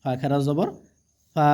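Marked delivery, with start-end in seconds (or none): 1.4-1.5 ফা held long and level; drawn-out vowel. Shown as a demonstration. Quran teacher showing one-alif length, ফা drawn out. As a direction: draw ফা right out. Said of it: "এগুলো টেনে পড়তে হবে একালিফ পরিমাণ".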